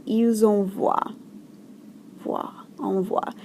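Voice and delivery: "envoient" with a silent ENT; silent ending. Shown as a demonstration. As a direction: end "envoient" on a wa sound. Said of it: "on ne prononce pas".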